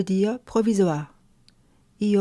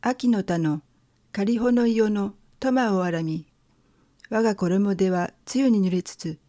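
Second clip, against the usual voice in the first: poem recitation. Shown as a demonstration. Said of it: "je vais lire le premier tanka".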